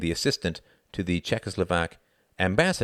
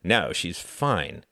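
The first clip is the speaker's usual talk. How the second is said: scowling; much slower than usual. Acted. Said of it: "scowled Reginald".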